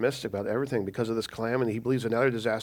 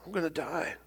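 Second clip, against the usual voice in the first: sudden high panicked "oh no", then dropping; panicked cry; 13 semitones higher, 7 dB louder, much slower than usual. Retold or imitated. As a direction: brothers panicking, sure they will die. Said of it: "They're like".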